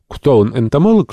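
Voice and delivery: eager, high, loud question; lively. A narrator's reading. Cousin Benedict asks about Uncle Toby, eagerly. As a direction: jump in with keen interest. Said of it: "живо спросил кузен Бенедикт".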